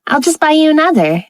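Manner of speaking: lifted and high, covering the awkwardness; bright. A narrator's reading. Haley covering her embarrassment to her husband, bright and high. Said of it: "she added brightly".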